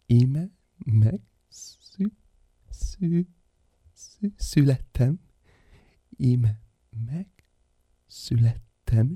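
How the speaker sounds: slow halting stutter on each syllable; stammering newborn giant. Acted. Giant baby stammering to the world, slow halting. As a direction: newborn struggling out its first word.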